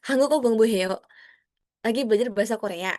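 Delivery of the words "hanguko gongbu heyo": hanguko gongbu heyo falling at the end; falling statement intonation; flat statement tune. Shown as a demonstration. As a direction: state it, let heyo drop. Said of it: "pakai tanda titik ya".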